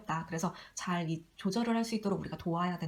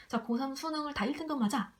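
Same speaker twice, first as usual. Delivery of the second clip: unreasonable demand; 5 semitones higher than usual. Retold or imitated. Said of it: "이렇게 얘기를 하면".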